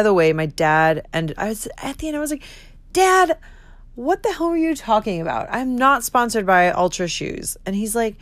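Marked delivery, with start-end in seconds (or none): 2.9-7.6 high, indignant retold protest; exasperated daughter. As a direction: call out Dad, then protest. Retold protest to her dad.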